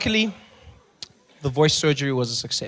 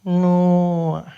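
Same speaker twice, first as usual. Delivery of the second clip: louder, drawn-out name; clerk voice; 5 semitones higher, 8 dB louder, much slower than usual. Retold or imitated. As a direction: say his name in slow disbelief. Clerk repeats his name.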